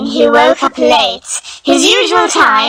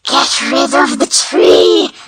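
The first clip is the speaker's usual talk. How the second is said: breathless dying wish; slower than usual. Acted. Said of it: "gasping for breath".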